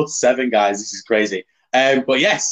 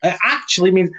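ACTUALLY leaned on, higher; higher voice, stretching "actually"; odd emphasis; 5 semitones higher than usual. Real, not acted. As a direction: lean oddly hard on "actually". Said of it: "I don't know why I said it like that".

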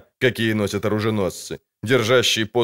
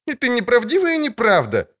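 loud; 3 dB louder than usual. Acted. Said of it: "громко сказала".

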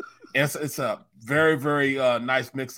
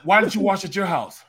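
annoyed demand; 6 semitones higher, 6 dB louder than usual. Retold or imitated. Confronting son about laundry.

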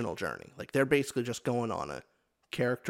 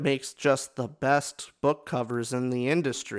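ad-style praise; 4 dB louder than usual. Acted. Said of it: "say that one more time".

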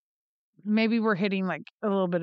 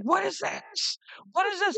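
put-on much higher, frantic child voice; panicked little boy; 10 semitones higher than usual. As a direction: play a scared kid asking over and over.

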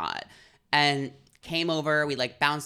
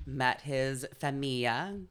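put-on Italian accent; 6 dB quieter, slower than usual. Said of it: "Was that supposed to be Italian?".

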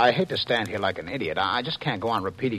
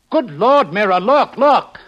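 much higher and louder pleading; frantic shout; 10 semitones higher, 11 dB louder, slower than usual. Acted. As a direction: beg her to see.

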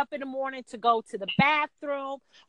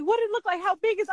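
urgent questioning; 7 semitones higher, much faster than usual. Retold or imitated. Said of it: "He's like".

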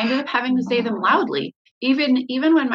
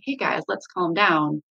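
calm; 3 semitones lower than usual. Shown as a demonstration. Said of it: "instead of".

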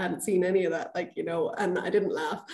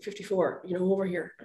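quieter, mock-stern summons; 5 dB quieter than usual. Referee calling over a player she caught, quietly stern. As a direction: call them over in an understated stern voice. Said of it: "I was very stern".

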